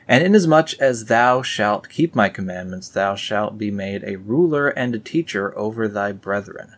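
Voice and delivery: scripture reading. Acted. Reading the Book of Nephi aloud to viewers, solemn. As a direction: proclaim it like old scripture.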